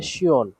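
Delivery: "শিয়ন" said as shi-on; demonstrated pronunciation. Shown as a demonstration. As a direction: answer with a clear "শিয়ন", falling at the end. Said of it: "কি উচ্চারণ করা হয়?".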